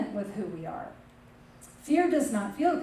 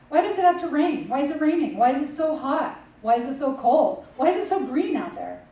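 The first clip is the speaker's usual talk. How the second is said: raised, louder pile-up of grievances; hammed-up griping, one question after another; mock complaining; 4 semitones higher, 4 dB louder than usual. Preacher imitates people griping about life and weather, mock complaint. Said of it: "if we're saying words like".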